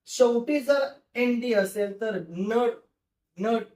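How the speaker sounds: नट said with a clear final "nt"; नट, the ending blend pronounced slowly and distinctly; nd sound demo. Shown as a demonstration. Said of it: "तो sound होत असतो".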